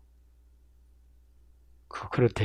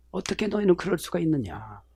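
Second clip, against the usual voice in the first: 너희는 leaned on, much softer, rising at the end; soft rising question; 2 semitones higher, 14 dB quieter than usual. Shown as a demonstration. Preacher repeats the phrase softly, rising, stress on 너희는. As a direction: ask 어떻게 너희는 quietly, lifting the tail. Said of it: "이 말이에요".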